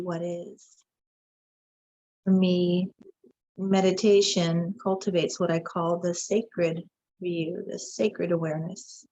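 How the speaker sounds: unhurried meditation voice with long pauses; guided meditation. Acted. Guide leads viewers into meditation after the bowl, calm meditative delivery. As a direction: guide listeners inward, leaving space between phrases.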